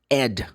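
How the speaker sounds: "ed" said with an open E; wrong ED ending. Shown as a demonstration. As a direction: pronounce "ed" as the name Ed. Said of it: "can never be pronounced".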